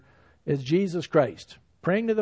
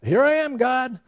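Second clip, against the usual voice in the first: puffed-up pride; 5 semitones higher than usual. Retold or imitated. A proud believer boasting to God, in mock self-importance. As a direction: swell up with self-satisfied pride. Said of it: "Don't ever get yourself puffed up".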